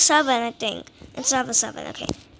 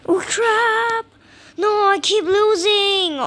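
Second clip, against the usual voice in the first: frustrated outburst; 4 semitones higher, 5 dB louder than usual. Real, not acted. Loses again.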